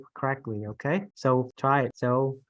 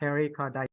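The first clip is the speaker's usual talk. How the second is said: "pericarditis" with the weight on DI; stress on itis; 3 dB quieter, faster than usual. Shown as a demonstration. Teacher applying the rule, stressed itis in "pericarditis". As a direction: lean on the itis end of "pericarditis". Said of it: "emphasis on the itis part".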